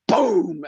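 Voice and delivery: imitated blast on a drawn-out word; punchy mock explosion; house-shaking boom. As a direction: boom it out like a sudden bang. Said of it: "house shaking boom".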